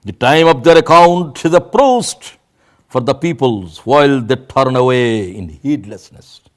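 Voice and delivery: very slow, weighty English recitation; solemn slow reading. Acted. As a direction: lay each word down heavily. Reads English translation slowly. (ধীর গম্ভীর অনুবাদ পাঠ)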